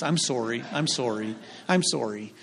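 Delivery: low, soft repeated apology; mock apologetic. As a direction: apologise meekly, voice dropped, in jest. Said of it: "you go around saying you're sorry".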